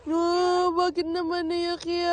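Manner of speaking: sustained singsong coo. Real, not acted. Asking the crying little one why, gentler drawn-out coo. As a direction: draw out the last syllable soothingly.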